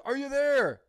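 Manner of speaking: high, loud impatient call; loud repeated call. Retold or imitated. Heist boss yelling at the silent partner, loud and impatient. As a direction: bark it into the headset. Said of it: "And he goes".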